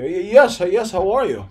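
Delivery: sit up straight and sound proper; a light demo of the interview voice. Shown as a demonstration. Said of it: "Speaking interview".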